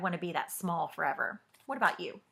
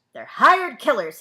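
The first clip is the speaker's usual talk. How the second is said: louder, slow warning; stern warning; 4 semitones higher, 12 dB louder than usual. Acted. Uncle Julius warns Wilkie about exterminators, loud and slow. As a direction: warn him slowly and hard.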